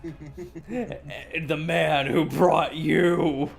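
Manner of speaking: slow low trailer announcer; movie trailer voice. Pretend. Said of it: "the trailers".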